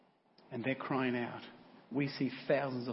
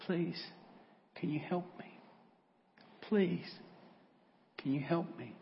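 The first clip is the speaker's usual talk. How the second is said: weak plea; 5 semitones higher than usual. Acted. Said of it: "The young man says".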